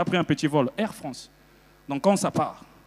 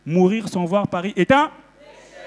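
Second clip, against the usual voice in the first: proclaimed motto. Acted. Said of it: "Bakongo aussi a sa devise".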